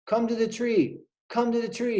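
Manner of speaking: high, calling across to a friend. Acted. Blackbird calling his friend to the tree, high. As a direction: sing it out high to call him. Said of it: "he called".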